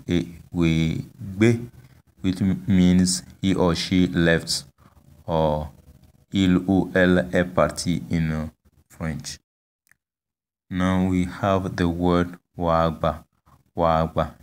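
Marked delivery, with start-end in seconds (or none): 0.1-1.7 a, we be with be pitched higher; a, we be, careful demo ending high; high final tone. Shown as a demonstration. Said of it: "tone is on the last vowel". 12.6-14.3 wagba level, without any raised syllable; wagba, careful demo with no lift; no high tone. Shown as a demonstration. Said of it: "there's no high tone".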